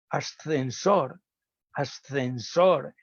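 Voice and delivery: ascensor spelled out slowly, each sound drawn out; slow demo word. Shown as a demonstration. Lecturer slowly models ascensor for speech therapists. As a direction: say ascensor syllable by syllable. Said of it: "si yo le mando repetir la S".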